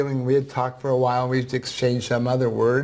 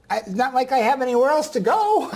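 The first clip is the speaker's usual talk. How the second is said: put-on old woman voice; 11 semitones higher than usual. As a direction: voice the ninety-four-year-old gently. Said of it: "I'm gonna use a voice that s-, sounds like her".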